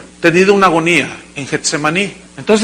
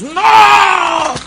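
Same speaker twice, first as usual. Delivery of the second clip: high shouted wail of regret; a piercing cry of remorse; anguished cry; 11 semitones higher than usual. Acted. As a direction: cry out in despair as if sobbing. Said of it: "pero gritando".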